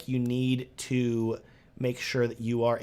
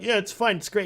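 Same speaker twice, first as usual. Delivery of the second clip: mock breezy client; 7 semitones higher, 3 dB louder than usual. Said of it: "they're like".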